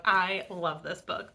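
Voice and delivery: slow, drawn-out mock gush; self-mocking gush. Reviewer mocking her five-star book praise, slow mock gush. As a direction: draw it out, imitating your own gushing. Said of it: "am I just gonna say that".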